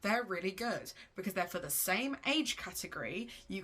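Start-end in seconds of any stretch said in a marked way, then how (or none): 0.0-0.9 gentle, higher, innocent nudge; gently. Shown as a demonstration. Suggested line to friends about another author, gently. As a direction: slip the suggestion in sweetly. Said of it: "feel free to just very gently say".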